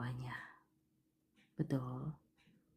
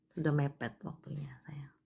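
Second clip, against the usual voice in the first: whispered, much softer; 6 dB quieter than usual. Real, not acted. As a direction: let it fade into a gentle whisper. Tender consolation to the caller.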